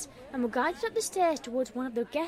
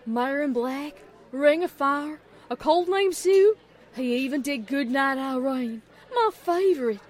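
happy excitement; 2 semitones higher, 8 dB louder than usual. A narrator's reading. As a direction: reel off favorites like a thrilled fan. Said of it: "who sounded just as happy as Applejack".

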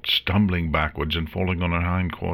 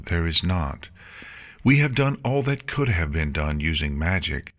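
a lightly voiced nurse, higher, uneasy; nervous nurse; 3 semitones higher than usual. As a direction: deliver bad news with nervous care. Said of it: "the nurse answered nervously".

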